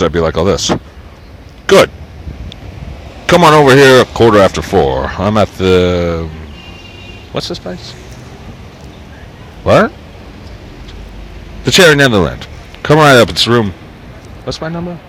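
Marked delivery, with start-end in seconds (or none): 0.4-13.7 put-on old-fashioned New York Jew. Reading the book to viewers in an old New York voice. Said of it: "I do it in two voices". 14.4-15.0 high, soft second voice. Acted. Second character in the book asking, high and soft. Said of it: "I do it in two voices".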